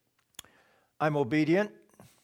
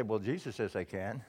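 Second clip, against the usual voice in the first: cheeky retort; 3 semitones lower, 6 dB quieter than usual. Retold or imitated. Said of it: "I say".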